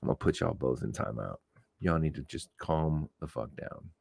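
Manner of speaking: lightly voiced strict mom threatening timeout; mock stern parent. Telling two bickering co-hosts to calm down, mock stern parent.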